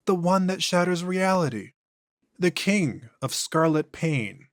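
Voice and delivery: an ancient thing speaking through a man; eerie, unhurried entity; possessed alien voice. Acted. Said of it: "voice and inflections are noticeably different".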